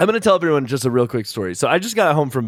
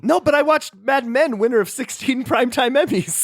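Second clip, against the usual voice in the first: announcer voice; 12 semitones higher than usual. Acted. Answers in announcer bit.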